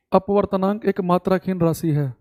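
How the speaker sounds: measured Hindi phrase for note-taking; teacher dictating the definition; slow dictation. Shown as a demonstration. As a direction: read it out slowly for writing. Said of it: "तो लिखेंगे".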